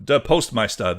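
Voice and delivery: hammed-up German accent, drawn out. Shown as a demonstration. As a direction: put on a slow, emphatic German accent. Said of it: "That's my German accent".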